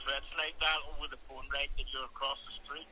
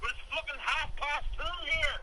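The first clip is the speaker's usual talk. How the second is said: raised, higher, slowed angry rant; furious rant; 6 semitones higher than usual. Real, not acted. Woken man rants at the prank caller, furious. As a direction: tear into the caller with real fury. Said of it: "why you're so mad at me".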